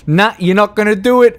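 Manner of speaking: high, loud, fast self-command through tears; fighting back tears. Retold or imitated. Talking himself out of crying on stream, high and tearful. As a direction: tell yourself firmly not to cry. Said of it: "I'm like".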